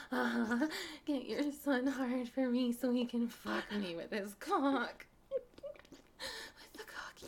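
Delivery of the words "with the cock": slow taunting whisper; very slow, softer whispered taunt. Acted. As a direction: drawl it in a whisper. Hushed taunt.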